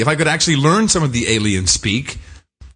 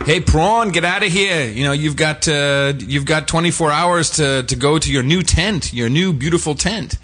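fascist official; 6 semitones higher than usual. Retold or imitated. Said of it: "in a very typical fascist way".

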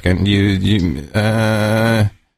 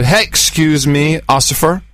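put-on drunk talking to a cop.

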